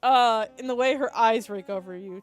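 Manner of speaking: story narration. A narrator's reading. Player reading a romantic scene aloud, story narration. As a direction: narrate it evenly.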